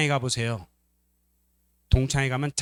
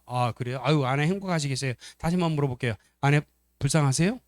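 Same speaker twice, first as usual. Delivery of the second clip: normal talking voice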